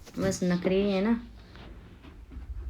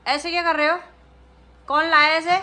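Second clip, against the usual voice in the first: playful scold; 7 semitones higher, 8 dB louder, faster than usual. Real, not acted. Mother scolding child playfully.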